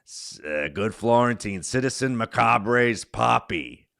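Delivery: a light Long Island comic voice; Jim Florentine impression. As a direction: riff like a gruff Long Island comedian. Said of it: "best impression".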